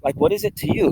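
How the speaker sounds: lightly voiced wife telling him to drop it; imitating wife. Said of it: "she said so many times over the years".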